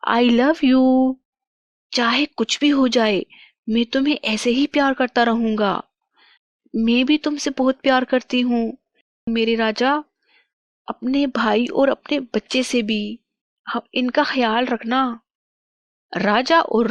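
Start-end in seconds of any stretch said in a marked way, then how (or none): 0.1-5.8 devoted king. Acted. King declares love to queen. 6.8-15.2 lightly voiced, slightly raised loving reply; loving queen. Queen answers with love.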